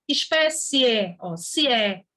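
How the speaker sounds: "espécie" drawn out with i and é each heard; slow down on "espécie" so the final vowels both sound; careful syllable demo of "espécie". Shown as a demonstration. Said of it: "Cada uma tem seu som".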